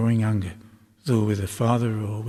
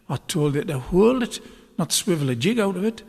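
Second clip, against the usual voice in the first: mild rasp; 7 semitones higher than usual. A narrator's reading. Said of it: "the blind man rasped at her".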